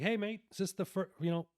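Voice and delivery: put-on casual British accent on a quick question. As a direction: imitate a London bloke asking, British accent. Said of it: "with a British accent".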